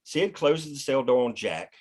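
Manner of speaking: ordinary delivery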